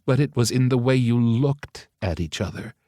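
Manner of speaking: "it" leaned on, rising at the end; stress on the key word. Acted. Mother insisting to her son, leaning on "it". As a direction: leans hard on "it" to make her point. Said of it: "the speaker stressed the word".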